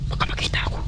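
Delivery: scared hushed whisper. Real, not acted. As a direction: breathe it out so nobody hears. Hiding, afraid of being seen. (takot na pabulong)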